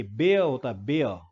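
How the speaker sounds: "बेयर" said bay-uh, with the air diphthong and no ee sound; correct pronunciation. Shown as a demonstration. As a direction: say "बेयर" as bay-uh, not bee-uh. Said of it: "बियर नहीं होता".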